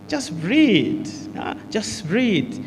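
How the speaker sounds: slow, soft reassurance, drawing out the breath; soothing an anxious person. Shown as a demonstration. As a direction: gently coax a nervous friend to breathe. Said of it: "If a person is anxious".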